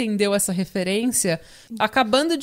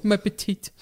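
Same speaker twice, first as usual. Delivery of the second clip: French chef. Pretend. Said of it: "Tenta ser o Peuple Pew".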